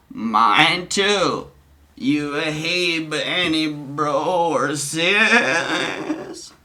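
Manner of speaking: slow, drawn-out put-on voice; Donnie's chat voice. Streamer voicing Donnie's reply in chat, slow put-on voice. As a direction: stretch the words out slowly. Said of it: "forgive my voices".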